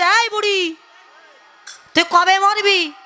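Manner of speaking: a hint of a cheeky boy mocking granny; rude grandson. Grandson taunting his grandmother, lightly voiced rude boy. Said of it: "এই নাতি তখন ঠাকুমাকে ডেকে বলছে".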